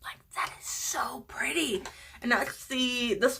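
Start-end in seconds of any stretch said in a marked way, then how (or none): 0.0-1.8 awed whisper; hushed, in love with it. Real, not acted. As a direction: whisper your admiration. Admiring the swatch.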